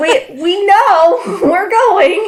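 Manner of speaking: high-pitched laughing voice, exasperated and mock-protesting.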